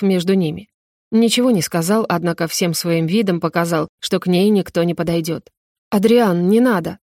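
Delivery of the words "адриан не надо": tense. Acted. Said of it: "напряжённо произнёс Шиан".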